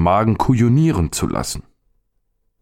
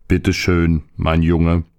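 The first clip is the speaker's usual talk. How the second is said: stomach answering; slower than usual. Acted. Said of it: "rief der Magen".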